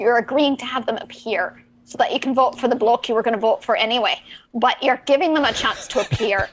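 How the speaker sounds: put-on pirate accent. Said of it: "it's Talk Like a Pirate Day".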